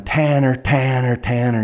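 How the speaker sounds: calls, fading a little each time; yelling a name. Retold or imitated. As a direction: shout into the smoke for the boy. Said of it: "Steve is yelling".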